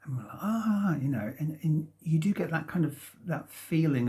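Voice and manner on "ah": high, drawn-out sigh of relief; relieved "ahh". Retold or imitated. Speaker recalling a weight lifted after coming out, relieved. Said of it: "like a weight's been lifted".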